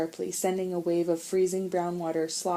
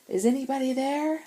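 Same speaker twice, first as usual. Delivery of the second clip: high hopeful call; 8 semitones higher, 3 dB louder than usual. Acted. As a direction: ask with hope. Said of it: "asked Sean hopefully".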